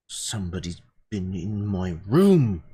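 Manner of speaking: little voice, lightly put on; small child's voice. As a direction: play a small suspicious kid. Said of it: "small voice say".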